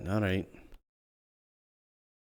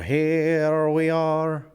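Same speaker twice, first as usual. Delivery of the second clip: Here we are stretched very slowly and higher; drawn-out call; 3 semitones higher, 4 dB louder, much slower than usual. Shown as a demonstration. Streamer announcing the character's arrival, stretched slow call.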